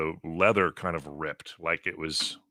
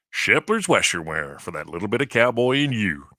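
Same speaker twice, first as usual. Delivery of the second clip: cowboy voice; 2 semitones higher, 5 dB louder than usual. Retold or imitated. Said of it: "this guy sounded like a cowboy".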